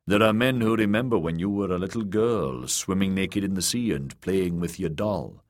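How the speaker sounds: lightly voiced stern uncle, scornful; a hint of a proud sea captain; gruff old warrior. Uncle's voice in narration.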